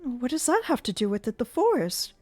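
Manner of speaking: high, rising panic about the burning wall; frightened Christine. Acted. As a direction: cry out in alarm. Christine alarmed.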